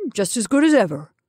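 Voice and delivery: pleasant, mildly put-on man's voice. Henry righting the chair, pleasant. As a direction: reassure them breezily. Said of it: "he said pleasantly".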